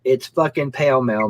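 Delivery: "pale male" with long a sounds. Shown as a demonstration. Teasing friend insists the brand is "pale male". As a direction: say Pall Mall as "pale male". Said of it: "pronounce that shit pale male".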